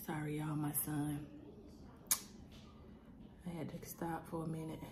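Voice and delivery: soft, strained talk through a burning mouth; mouth on fire. Real, not acted. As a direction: speak quietly with a burning mouth. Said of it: "my mouth is still on fire".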